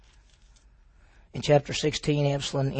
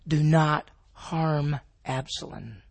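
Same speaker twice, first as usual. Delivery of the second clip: pleading order; much slower than usual. Acted. David's order to his men.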